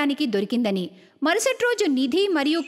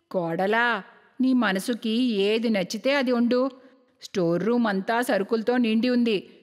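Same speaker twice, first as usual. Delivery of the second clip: lightly voiced mother-in-law, pitched a little low; a hint of an obliging elder; 4 semitones lower than usual. Mother-in-law figure in story. (కాస్త తగ్గు స్వరంలో అత్తగారు)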